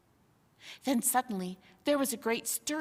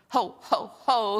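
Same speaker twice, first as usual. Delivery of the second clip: spoken chuckle; 6 dB louder than usual. Acted. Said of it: "he chuckled".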